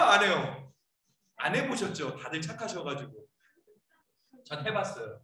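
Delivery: ordinary delivery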